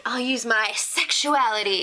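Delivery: mock vamp playing up sexuality; Jenna Maroney. Contestant describing her strategy, mock seductive. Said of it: "She's all Jenna Maroney".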